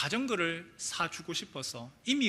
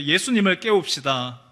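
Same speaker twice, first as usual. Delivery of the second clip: 예수님을 said louder for the congregation to echo; call and response; 5 dB louder than usual. Shown as a demonstration. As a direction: lead the chant of 예수님을 깨웁시다. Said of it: "따라해 보실래요?".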